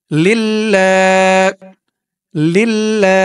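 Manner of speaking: লিল্লা with the final আ held one alif long; stretch the vowel. Shown as a demonstration. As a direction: hold the last vowel of লিল্লা. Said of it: "খারা জবর ধরে একালিফ টান দিয়ে পড়তে হবে". (লিল্লা শেষের আ এক আলিফ টেনে)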